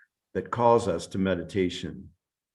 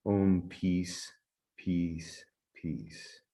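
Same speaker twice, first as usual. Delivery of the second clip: spoken prayer. Real, not acted. Teacher blessing the meditation group, calm prayerful recitation. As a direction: recite a prayer, letting the last words fall away.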